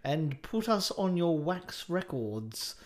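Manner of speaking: put-on measured, lightly pompous old-world voice; stately, slightly hammed-up address; mock old-time announcer. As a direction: play a fusty gramophone-era speaker. Mock-archaic podcast opening.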